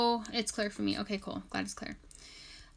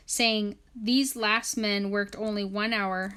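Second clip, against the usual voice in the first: scripture reading; 4 dB louder than usual. Acted. Reads scripture aloud.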